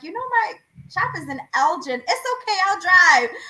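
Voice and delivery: high, quick, bright retelling of the phone call; lively retold chat. Retelling how the out-of-town client insisted on coming, high and quick. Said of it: "I'm like".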